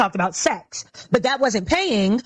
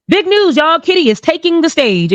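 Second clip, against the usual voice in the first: mock announcer; 5 semitones higher, 4 dB louder than usual. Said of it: "They say".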